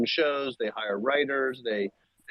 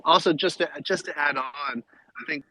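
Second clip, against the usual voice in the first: fading out over a failing connection; call dropping out. Real, not acted. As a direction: voice breaking up on a bad line. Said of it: "We lost you, Bear".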